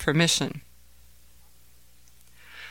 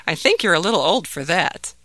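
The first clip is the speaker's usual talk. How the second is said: loving laugh; 3 dB louder than usual. Acted. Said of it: "His father laughed lovingly".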